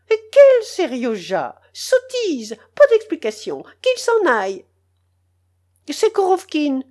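put-on high, loud furious old lady; shrill scolding. The general's wife to the uncle, shrill furious scolding. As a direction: chase the intruder out with high shrill rage.

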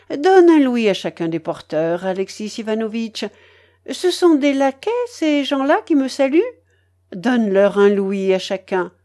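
lightly voiced imperious matriarch; bossy old grandmother. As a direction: hand out orders with emphatic bursts. (babouchka un peu autoritaire)

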